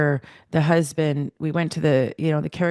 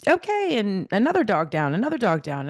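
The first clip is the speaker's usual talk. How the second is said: imitating yoga instructor; 5 semitones higher than usual. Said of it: "she's like".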